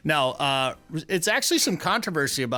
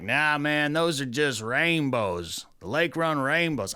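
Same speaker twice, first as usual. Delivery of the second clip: a light put-on Southern accent, slowed; mock Southern drawl; slower than usual. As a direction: lightly drawl it like a Southern fisherman, "Nah, man". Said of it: "That sounds like they're from the South".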